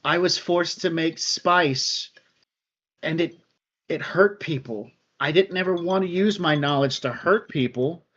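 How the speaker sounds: sad tearful voice. Acted. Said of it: "he says in a sad, tearful voice".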